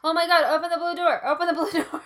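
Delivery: loud, high excited urging. Real, not acted. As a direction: urge it with loud glee. Excited cry to open the door.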